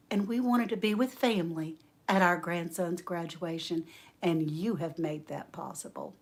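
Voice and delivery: soft, sincere retold thanks; heartfelt gratitude. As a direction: voice a grateful older lady gently. Older lady's heartfelt thanks, re-enacted.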